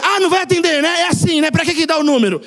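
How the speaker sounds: imitated one-sided quarrel. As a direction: act out an offended texter picking a fight. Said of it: "aí ele brigou sozinho".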